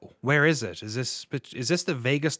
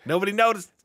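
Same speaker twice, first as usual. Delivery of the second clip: silly high voice; 10 semitones higher, 5 dB louder, faster than usual. Pretend. Jokey repeat, high voice.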